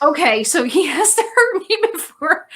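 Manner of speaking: mock the absurd ruling, exasperated; incredulous. Retelling her reply to the judge, incredulous with a laugh. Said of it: "And I'm like".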